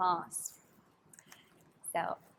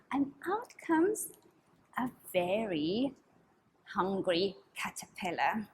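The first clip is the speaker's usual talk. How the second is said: storyteller whisper; 4 semitones lower than usual. Acted. Storytelling hush.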